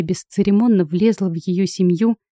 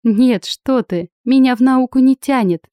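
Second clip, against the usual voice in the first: заверяюще; 4 semitones higher, 4 dB louder than usual. Acted. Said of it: "заверила я".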